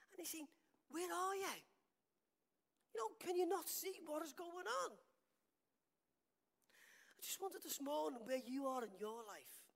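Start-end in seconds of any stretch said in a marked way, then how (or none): 0.9-5.0 higher, louder pleading demand; crying out. Acted. David demanding that God see his trouble, crying out. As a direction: call out urgently to an absent God. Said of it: "he's crying out to God".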